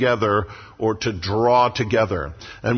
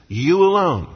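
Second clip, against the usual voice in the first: you alone, pitched higher and louder, hitting alone; emphatic you alone; 5 semitones higher, 3 dB louder than usual. Real, not acted. Preacher insisting to the congregation that only they are salt, emphatic. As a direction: punch out alone as the point of the verse. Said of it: "Those are emphatic phrases".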